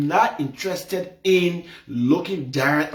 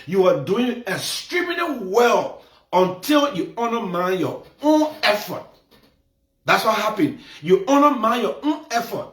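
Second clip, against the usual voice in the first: raised, crying-edged shouting rebuke; heated scolding; 6 semitones higher than usual. Real, not acted. To Doctor Becca Rice, a raised crying scold. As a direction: tell her off, voice cracking with passion.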